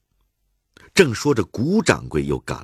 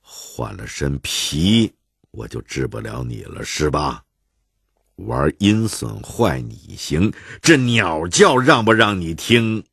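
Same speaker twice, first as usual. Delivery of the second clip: glaring anger; slower than usual. Acted. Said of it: "怒目圆睁".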